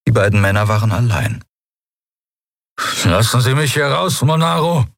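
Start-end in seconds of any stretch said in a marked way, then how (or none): 3.1-4.8 high, effortful drugged demand; strained, higher-pitched attempt at anger; trying to sound angry. A narrator's reading. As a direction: struggle to command, words barely forced out. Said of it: "Telios wollte zornig klingen".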